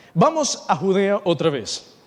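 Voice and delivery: slow line with Vamos punched at the start; stress on Vamos. Shown as a demonstration. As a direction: lean hard on Vamos, then let the rest settle. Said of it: "tengo énfasis en la palabra vamos y vas".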